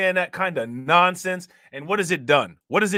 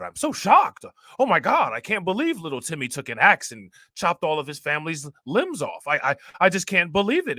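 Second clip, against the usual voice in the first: exaggerated disbelief with swooping pitch; mock shocked neighbors. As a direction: play up the stunned neighbor, voice leaping on key words. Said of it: "these people are always like".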